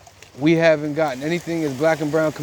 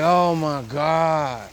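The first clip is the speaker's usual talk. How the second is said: slow, drawn-out stunned oh my God; stunned gasp; much slower than usual. Retold or imitated. Son sees mother glowing in the dark, slow shocked disbelief. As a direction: caught off guard by a glowing figure, drawn out in shock. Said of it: "I was like".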